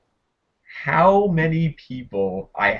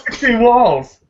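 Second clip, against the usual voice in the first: high, loud gleeful echo; excited shout; 9 semitones higher, 6 dB louder, slower than usual. Real, not acted. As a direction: shout it back, much higher. Echoes the shout back.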